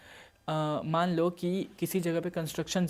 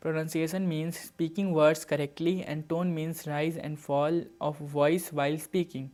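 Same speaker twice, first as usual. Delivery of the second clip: very slow, word-by-word definition read; slow dictation; much slower than usual. Acted.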